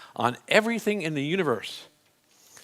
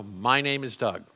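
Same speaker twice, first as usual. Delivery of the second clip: firm, deliberate, slower statement of the name; with gusto; 2 semitones lower, slower than usual. Shown as a demonstration. Coach shows Doug how to state his name with gusto. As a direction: say it like you own it. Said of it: "and say with gusto".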